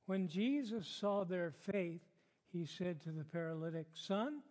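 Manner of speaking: measured Bible reading in phrases; deliberate pulpit reading; scripture reading. Acted. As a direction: read the passage aloud to a congregation, pausing between phrases. Reads the passage aloud.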